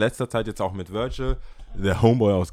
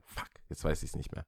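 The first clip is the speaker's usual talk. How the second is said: geflüstert; 8 semitones lower, 13 dB quieter than usual. Real, not acted. Leise zu sich selbst.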